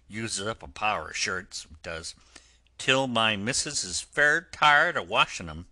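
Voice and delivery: loud, cheerful workman's bargaining; hearty engine driver. Acted. Driver offering Toad a ride for washing shirts, bluff and hearty. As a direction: strike the bargain bluff and friendly.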